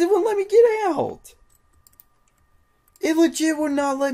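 high, loud disbelieving rant; outraged yelling. Real, not acted. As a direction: yell at the game in pure outrage. Game won't let him escape.

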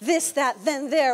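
"This, that, then, there" as a th drill; English TH practice. Shown as a demonstration. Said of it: "tú puedes aprender".

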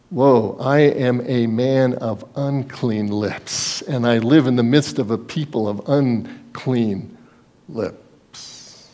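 slow, hushed confession fading to a breath; awed and ashamed, slow; Isaiah's confession. Retold or imitated. Isaiah confessing unclean lips before God, slow and hushed. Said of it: "he said".

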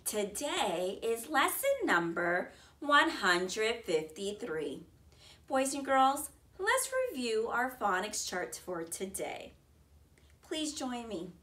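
bright sing-song classroom greeting; kindergarten teacher voice. Acted. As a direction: welcome little kids to class. Phonics lesson teacher greeting.

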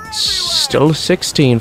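put-on squeaky teen voice crack, pitch jumping way up; deliberate pubescent crack on still sixteen. Shown as a demonstration. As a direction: break the voice high like a sixteen-year-old. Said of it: "That voice crack".

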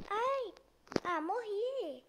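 loud high scream, dragged out; screaming while falling. Real, not acted. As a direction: scream as you hit the ground. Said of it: "tô caindo".

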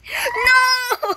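high, loud, long no; dismayed cry. Real, not acted. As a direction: cry out as you fall. Falls off in the game.

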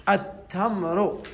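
التمر said slowly and clearly, each sound drawn out for the pupils; slow model word. Shown as a demonstration. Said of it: "كلمة فيها حرف التاء". (التمر ببطء ووضوح كنموذج للتلاميذ)

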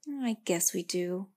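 slow, thoughtful admission; thoughtfully. Acted. Girl conceding to the tree, slow and thoughtful. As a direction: slowly weigh it over. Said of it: "the girl said thoughtfully".

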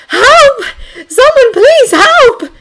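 high, loud cry for help; theatrical scream. A narrator's reading. Woman calls for rescue from her bedroom, theatrical scream. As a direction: scream it out, a bit stagey. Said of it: "and then she screamed".

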